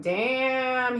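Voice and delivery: loud, hammed-up admiring voice; mock admiring. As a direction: play up the awe, bigger each time. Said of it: "But I was like".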